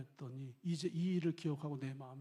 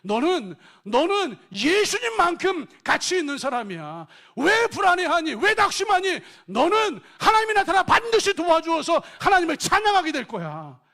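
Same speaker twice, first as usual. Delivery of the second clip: fervent self-affirmation; 13 semitones higher, 18 dB louder than usual. Shown as a demonstration. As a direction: declare your worth over yourself. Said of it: "스스로에게 말해주셔야 돼요".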